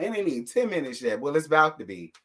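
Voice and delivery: ordinary talk, nothing marked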